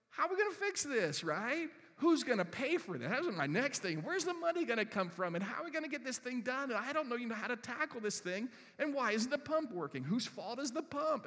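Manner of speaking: worried rapid-fire questions to himself; mock panicked thoughts; anxious inner rant. Pastor voicing his anxious inner rant.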